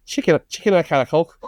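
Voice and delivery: practice phrase in Scouse; Scouse accent. Shown as a demonstration. Host getting back into character, Scouse accent warm-up. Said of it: "I need to get back into it".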